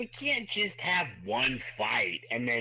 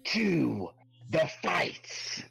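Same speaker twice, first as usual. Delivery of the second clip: slow, higher hypnotic command; a fake wizard's slow, commanding spell voice; mystic command; 4 semitones higher, much slower than usual. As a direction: draw it out like a spell. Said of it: "He's like".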